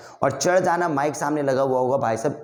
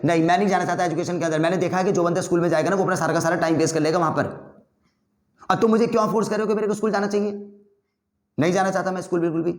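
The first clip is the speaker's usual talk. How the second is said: School नहीं जाना, तेज़ और गुस्से में; angry fast arguing; 3 semitones higher, faster than usual. Shown as a demonstration. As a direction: argue back hotly and quickly, refusing school. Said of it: "गुस्से से जैसे मैं बोल रहा हूँ और जल्दी जल्दी".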